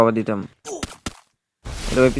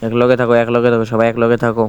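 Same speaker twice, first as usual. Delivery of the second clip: loud call; 6 dB louder than usual. Real, not acted. Urging team to stay together.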